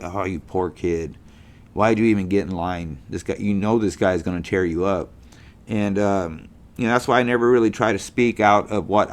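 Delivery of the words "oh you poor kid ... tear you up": put-on low, soft sympathy for the kid; pitying aside. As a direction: murmur it lower, as if quietly feeling sorry for them. Sympathy for a student being shredded.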